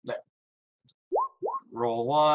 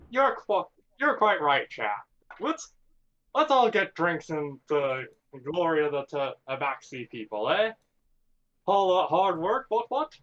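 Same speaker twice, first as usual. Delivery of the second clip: pompous toast; 4 semitones higher than usual. Acted. Player voicing a pompous toast.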